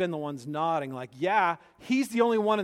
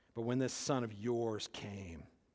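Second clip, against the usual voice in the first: mock contempt, lower and quieter; 8 semitones lower, 10 dB quieter than usual. Reading the older son's complaint to his father aloud: acting out disdain in his voice. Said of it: "you can hear the disdain in his voice".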